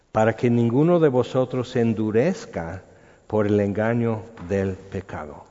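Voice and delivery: measured, solemn Bible reading; scripture reading. Acted. Pastor reading Hebrews to the congregation, solemn reading voice. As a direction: read the verses like from the pulpit.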